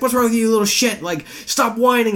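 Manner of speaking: high-pitched, exasperated imitated scolding; mock angry dad. Dad yelling at his son in the car, mock anger.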